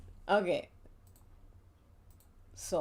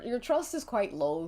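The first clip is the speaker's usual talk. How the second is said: ordinary talk, nothing marked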